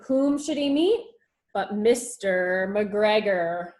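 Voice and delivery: ordinary delivery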